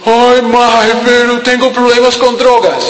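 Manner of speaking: mock a youth whining to his mother; whiny youth.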